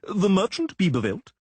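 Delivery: high, loud official crowing. A narrator's reading. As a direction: announce him pompously. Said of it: "crowed an individual".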